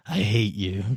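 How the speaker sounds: low, quiet creature voice; calm. Acted. Demon calms down in the bottle and looks at you, calm low hatred. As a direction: say it softly and low, with composure. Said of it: "it looks at you and calmly says".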